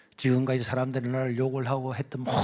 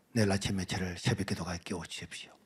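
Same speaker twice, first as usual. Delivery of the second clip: hushed, low plea to God; quiet bedtime prayer; 8 semitones lower, 8 dB quieter than usual. Retold or imitated. Boy praying quietly to God before sleep. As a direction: pray it softly before sleep.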